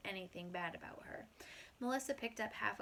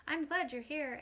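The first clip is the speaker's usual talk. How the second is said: smiling; 7 semitones higher, 7 dB louder than usual. Acted. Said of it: "I told her with a smile".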